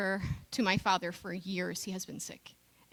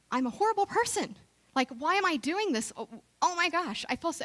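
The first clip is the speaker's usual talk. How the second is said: frantic self-scolding; 2 semitones higher than usual. Retold or imitated. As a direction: replay the panicked voice in your head berating yourself. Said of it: "I start shooting on myself".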